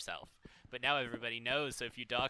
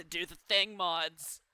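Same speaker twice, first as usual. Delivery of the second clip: higher, louder pointed hint; calling out; 5 semitones higher, 7 dB louder, slower than usual. Acted. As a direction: nudge the mods loudly and playfully.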